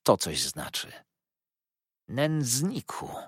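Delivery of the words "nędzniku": high, slow, drawn-out scornful cry; indignant cry. A narrator's reading. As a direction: fling the insult in outrage. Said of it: "zawołałem". (oburzony okrzyk)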